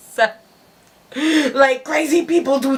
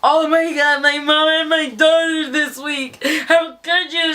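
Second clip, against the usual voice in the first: mock bawling; 4 semitones higher than usual. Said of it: "she starts bawling".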